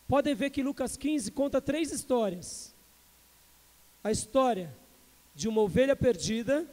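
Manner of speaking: fuller voice, lifting each phrase; rising preaching. Acted. Pastor lays out Luke fifteen to the church, rising preaching. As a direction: build the sermon toward its point.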